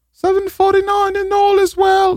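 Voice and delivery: high shouted crier call; mock town crier. Ranting host mimics a cheerful town crier. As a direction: ring out the hour like a night watchman.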